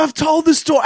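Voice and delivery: high, loud exasperated retort; hammed-up indignant yell; mock angry protest. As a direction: protest loudly, acting out a quarrel. Beggar's quarrel acted out.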